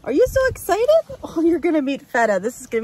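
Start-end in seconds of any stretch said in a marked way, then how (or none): 0.0-0.9 high, loud celebratory whoop; excited cheer. Real, not acted. Welcoming puppy Eleanor to Michigan, loud excited cheer. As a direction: cheer it out, stretching the last yay high.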